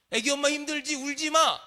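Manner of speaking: lightly acted comforting of a young mother; well-meaning consolation. Voices a well-meaning parent consoling.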